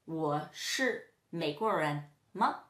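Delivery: slow, careful Mandarin example; slow model question. Shown as a demonstration. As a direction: say the question slowly for learners. Teacher models the question form.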